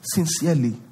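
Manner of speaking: low, soft self-pitying plea; mock pitiful prayer, low and soft; victim prayer. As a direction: whine to God like a victim. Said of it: "praying like a victim".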